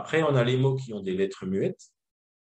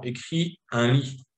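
put-on instruction to a child; 3 semitones higher, slower than usual. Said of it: "si vous dites à un enfant".

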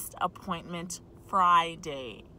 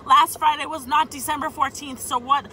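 exasperated; 5 semitones higher, 4 dB louder than usual. Real, not acted. Exasperated inner argument.

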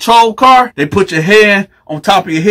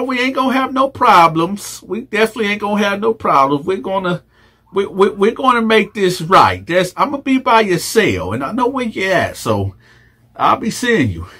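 Fleece voice; 5 dB quieter than usual. Acted. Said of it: "my Fleece voice".

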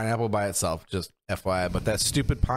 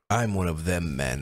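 mock quote; 3 semitones lower, slower than usual. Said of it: "That's what it sounded like".

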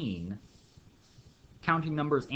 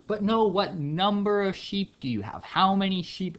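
higher, louder exasperated question; mock exasperated; 7 semitones higher, 4 dB louder than usual. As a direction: demand a number, hammed-up impatience. Shepherd frustrated, asking again.

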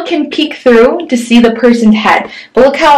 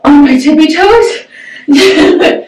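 straining on tiptoe; 6 semitones higher, much slower than usual. Real, not acted. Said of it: "I'm almost".

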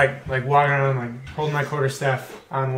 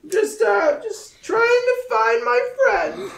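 put-on high, frail old beggar voice; old blind man voice. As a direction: play a lost, helpless old blind man. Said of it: "I'm like".

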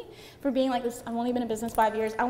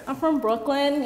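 lightly mocking a proud Brooklyn brag; playful mock tough-talk; Brooklyn boast; 3 semitones higher, 4 dB louder than usual. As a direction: brag about Brooklyn, getting louder by the end. Mimics her old Brooklyn boast.

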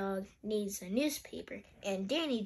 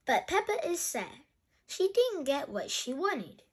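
put-on animated read-aloud for children; lilting picture-book narration; story reading; 5 semitones higher than usual. A narrator's reading. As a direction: read brightly to a young listener.

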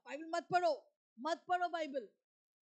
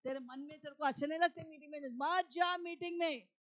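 tempting evil spirit; 4 dB quieter than usual. Acted. Monkey-like evil spirit talks a believer out of the meeting, coaxing then insistent. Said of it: "पूंछ को हिला के बोलते हैं".

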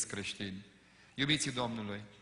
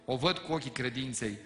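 higher, louder, fervent pulpit delivery; preaching at full force; 5 semitones higher, 5 dB louder than usual. Acted. Pastor urging the congregation not to rush, full preaching. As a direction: drive it home like a revival preacher.

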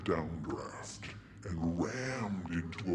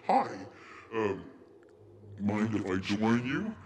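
nervous request; 2 semitones higher, 5 dB louder than usual. Acted. Nervous passenger asks a stewardess to sit, awkward and eager. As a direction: blurt the greeting, hesitate, end hopefully.

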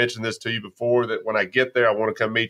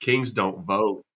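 Kings don't vote drawn out slowly, softer; savoring the slogan; 2 semitones lower, 4 dB quieter, much slower than usual. Real, not acted. Host repeating the guest's slogan, slow and savoring. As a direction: taste each word of Kings don't vote.

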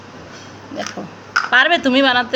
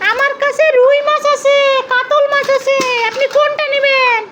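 lightly voiced fish seller; 5 semitones higher than usual. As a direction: sell it to the customer. Seller answers customer.

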